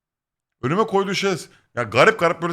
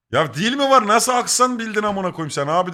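high, louder incredulous protest; retold exasperation, pitched way up; mock outrage; 10 semitones higher, 4 dB louder than usual. Customer protesting accent guess to shopkeeper, mock outraged.

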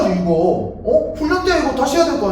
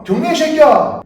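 angry; 4 semitones higher, 6 dB louder, slower than usual. Acted. Demanding salute angrily.

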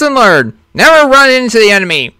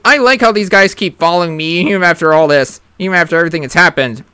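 macho voice. Acted. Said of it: "why am I still talking like this".

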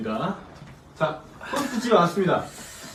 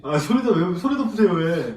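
indignant complaint; 3 semitones higher, 5 dB louder than usual. Acted. Customer complains in skit.

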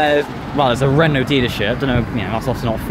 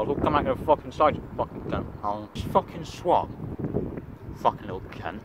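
much softer, half-whispered swearing; hushed; 6 dB quieter than usual. Real, not acted. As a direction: keep it down, muttering at the swan. Eating quietly beside a swan.

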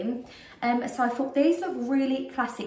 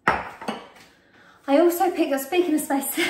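breathless, slow start that breaks into a laugh; gasping a little for air mid-sentence; out of breath; 5 semitones higher, 4 dB louder, slower than usual. Real, not acted. Pregnant vlogger, breathless while showing her haul, out of breath. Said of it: "I'm so out of breath at the minute".

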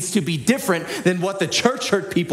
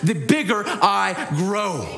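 higher, rising preacher's shout; full-force preaching; 5 semitones higher than usual. Real, not acted. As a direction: build the sermon to a shout.

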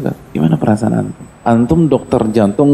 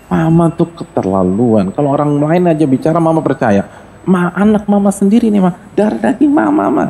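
reproachful son; 6 semitones higher than usual. Acted. Son reproaching his mother.

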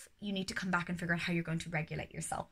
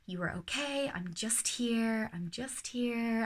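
reassuring repetition; 4 semitones higher, slower than usual. Shown as a demonstration. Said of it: "tell my child repeatedly".

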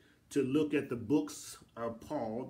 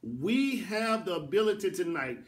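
preaching fervor; 3 semitones higher than usual. Acted. Preacher exalting God to the congregation, fervent proclamation.

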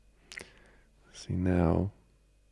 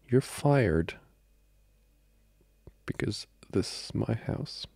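mock firing; 5 semitones higher, slower than usual. Pretend firing of the servant.

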